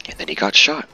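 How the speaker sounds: offhand remark, lifting on SHOT; casual. Real, not acted. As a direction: toss it off casually, voice rising at the end. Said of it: "said that so casually".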